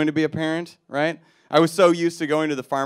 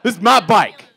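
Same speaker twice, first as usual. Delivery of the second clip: tough guy; 8 semitones higher, 9 dB louder than usual. Retold or imitated. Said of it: "face that just says".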